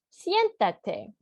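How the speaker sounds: a gentle, welcoming "Siéntate"; polite invitation. Shown as a demonstration. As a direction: offer a guest a seat kindly. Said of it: "it could be polite".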